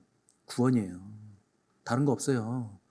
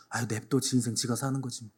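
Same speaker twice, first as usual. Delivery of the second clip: indifferent shrug; 4 semitones lower, 7 dB quieter than usual. Acted. Indifferent family dismisses.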